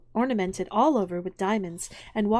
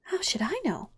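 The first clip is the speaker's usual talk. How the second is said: higher-pitched, pert retort; bold; 7 semitones higher than usual. A narrator's reading. Alice talking back to the Queen, boldly. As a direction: answer back with sudden nerve. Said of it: "surprised at her own courage".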